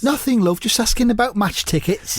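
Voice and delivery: high-pitched comic impression; Mark Lawrenson. Mark fobs off his wife, in high impression. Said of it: "I'll just say them as Mark".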